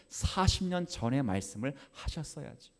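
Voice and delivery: ordinary talk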